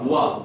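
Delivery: "وا" begun with both lips rounded; rounded waw. Shown as a demonstration. Teacher modelling waw for students to repeat, rounded articulation. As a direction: round the lips, keep them apart for "وا". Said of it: "دونوں ہونٹوں کو گول کریں گے".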